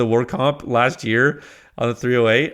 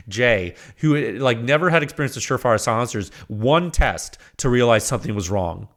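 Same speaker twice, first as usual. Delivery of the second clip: ordinary talk, nothing marked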